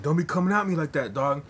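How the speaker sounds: high, loud mock tough guy; mocking thug voice. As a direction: ham up the street tough warning him off. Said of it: "He's like".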